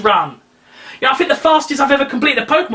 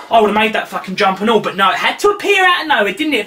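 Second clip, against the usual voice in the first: ordinary delivery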